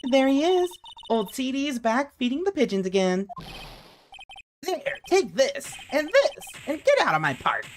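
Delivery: high, grumpy park ranger character; grumpy old man voice. Acted. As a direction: shoo him off like a cranky character. Reads game character lines.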